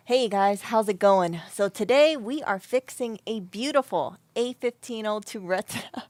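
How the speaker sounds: lightly put-on upbeat YouTube host intro; YouTuber impression. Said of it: "let me do my best impression".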